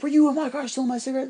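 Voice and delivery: mock accusing. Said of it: "he's like".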